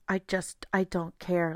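soft, listless shrug of a voice; lackadaisical. Acted. Burnt-out worker who stopped caring, lackadaisical. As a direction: trail it out softly, past caring. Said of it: "this lackadaisical attitude of".

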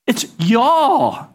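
y'all said as one drawn southern syllable, jaw; a Texan pastor's proud y'all; Texas y'all. Shown as a demonstration. Pastor showing congregation the Texan word, drawled. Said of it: "Can y'all say that?".

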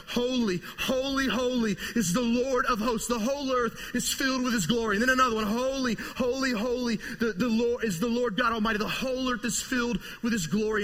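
high, loud proclaiming cry; angels crying out. Acted. Preacher voicing angels crying out loud. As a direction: call it out like angels before the throne.

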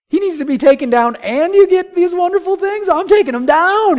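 mock outraged shepherd boy; eager young David. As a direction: burst out with youthful eagerness. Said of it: "He's like".

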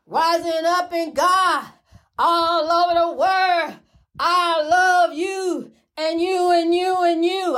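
slow, drawn-out preacher's send-off; uplifting blessing. Acted. Sending love to viewers worldwide, slow uplifting blessing. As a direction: bless every listener, slowly.

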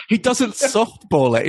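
laughing through the words, slowly. Real, not acted. Podcast host laughing to co-hosts about a blunt line, laughing. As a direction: chuckle it out in disbelief.

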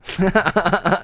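high, loud evil cackle. Acted. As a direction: cackle like a jack o lantern. Evil laugh in persona.

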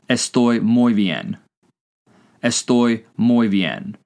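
slow, evenly spaced words; careful, drawn-out demonstration; slow language-teacher model. Shown as a demonstration. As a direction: say it slowly for learners to repeat. Teacher models phrase for learners.

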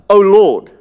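a loud, pleading cry to the Lord. Retold or imitated. Canaanite woman begging Jesus, a loud desperate cry. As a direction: call out to him like a desperate beggar. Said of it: "woman crying out to Jesus".

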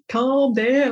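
guitarist calming her. Retold or imitated.

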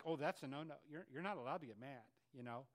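hint of a sanctimonious tut-tut; mock pious voice. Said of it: "we're like".

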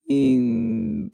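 high-pitched mock whimper; drawn-out, high crying whine, retold; imitated teary whine. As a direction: act out starting to cry with a high "mm". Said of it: "tears just start falling".

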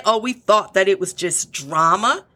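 mock the lame excuse; sarcastic imitation of the employees; scoffing put-on voice of an excuse. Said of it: "But you're gonna say".

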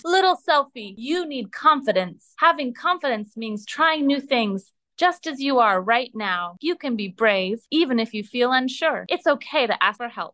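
a hint of a proud lion encouraging a friend; mild mock lion boom. Confidence the lion urging Little Selfie to be brave, mild mock boom. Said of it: "he boomed".

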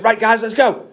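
rally the troops like a drill instructor; drill sergeant. Retold or imitated. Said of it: "You're gonna sound like a drill sergeant".

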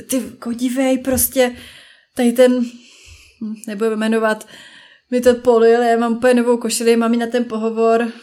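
acted flustered venting to a friend; upset complaint. (rozčileně si stěžovat)

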